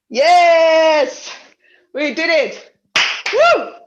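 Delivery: high, loud, triumphant cheering whoop.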